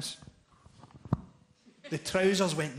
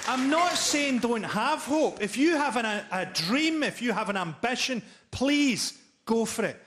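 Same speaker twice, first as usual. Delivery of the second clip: mock sincere; 4 semitones higher than usual. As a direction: sound like a kind life coach. Mock-sincere encouragement before punchline.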